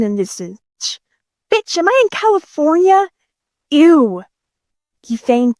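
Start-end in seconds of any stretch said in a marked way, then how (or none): 1.5-4.2 high-pitched, incredulous question; appalled disbelief. Acted. Man realizing he landed in California, appalled disbelief. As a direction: pitch up in disbelief, then disgusted. Sees where he has landed.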